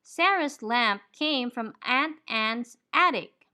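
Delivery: slow, careful model sentence; slow demo reading. Shown as a demonstration. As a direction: read it slowly for learners to copy. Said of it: "We say".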